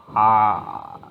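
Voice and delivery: put-on abandoned start of an Austrian accent; drawn-out Austrian-accented "Ah". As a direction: begin a mock Austrian "Ah". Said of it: "I'm not doing the accent".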